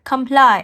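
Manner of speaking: "Comply." as kuhm-PLY, stress on PLY; repeating after the app. Shown as a demonstration. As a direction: echo the app's "Comply.". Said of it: "that's why I will tap here".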